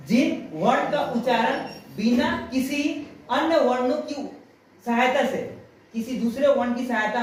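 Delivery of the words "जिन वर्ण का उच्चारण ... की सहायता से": slow it down so students catch every word; slow, careful repeat. Shown as a demonstration. Teacher repeating the definition slowly for her pupils to note. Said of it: "ध्यान से सुनना".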